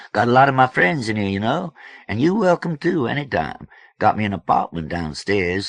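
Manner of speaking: high, animated, quick-talking host; expansive George. A narrator's reading. George welcoming Kid to his house, expansive.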